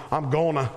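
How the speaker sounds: "gonna" said the Southern way, for "going to". Shown as a demonstration. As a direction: say "gonna" as a relaxed Southern contraction. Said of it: "as we say in the South".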